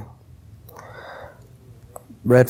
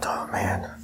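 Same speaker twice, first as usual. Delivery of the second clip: fearful whisper; 4 semitones lower, 12 dB quieter than usual. Retold or imitated. Scared man alone being followed.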